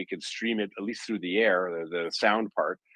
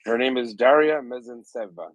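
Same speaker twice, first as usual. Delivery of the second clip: put-on name said with a light Italian accent, pitched up; 4 semitones higher, 3 dB louder than usual. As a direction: roll Daria Mezentseva out the Italian way. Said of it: "I said it with an Italian accent".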